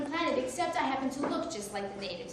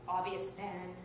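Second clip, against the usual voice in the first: lower, softer superhero-announcer voice; mock superhero title; 7 semitones lower, 7 dB quieter, slower than usual. Shown as a demonstration. Comic introducing her nickname in a lower hero voice. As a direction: intone it like a hero's name.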